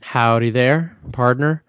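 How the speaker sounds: lightly put-on cowboy accent. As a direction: greet a fellow cowboy in a light twang. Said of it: "in that accent".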